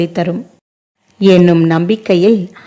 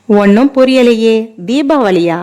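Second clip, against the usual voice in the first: higher, louder baffled question; puzzled surprise; 3 semitones higher, 3 dB louder than usual. Acted. Visiting friend baffled by the hostess's Diwali remark, puzzled surprise. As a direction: sound completely lost by the joke.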